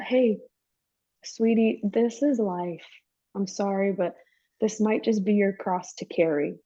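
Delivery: lightly voiced sweet-talking liar; a touch of false sympathy, as if consoling; lying enemy. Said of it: "the enemy goes around lying to us".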